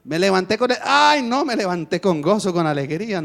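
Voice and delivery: joyful wake-up quote. Retold or imitated. Believer describing morning, mildly exuberant. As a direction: announce waking with joy. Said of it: "usted ya no va a decir".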